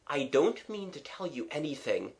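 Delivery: soft, sincere reply; truthful. Acted. Gerald refusing to tell the victim anything, soft and sincere. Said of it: "said Gerald quite truly".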